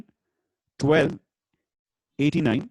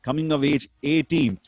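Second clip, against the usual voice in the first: bingo caller. Acted. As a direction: chant each number like a bingo host. Bingo number calls.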